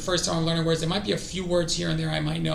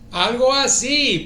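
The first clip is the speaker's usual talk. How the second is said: louder, slower, stretched emphatic repeat; 6 semitones higher, 7 dB louder, slower than usual. Shown as a demonstration. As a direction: land it big and slow with a falling end. Repeating Spanish phrase twice.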